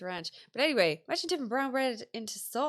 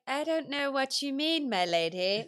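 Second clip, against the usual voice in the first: mock innocent servant; 5 semitones higher than usual. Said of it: "And I'd be like".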